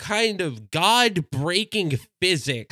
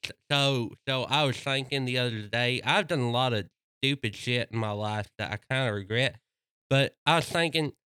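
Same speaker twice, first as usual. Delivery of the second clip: slushy lisping dog voice, a bit low; lateral lisp; 3 semitones lower than usual. Retold or imitated. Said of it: "I give him, like, a lateral lisp".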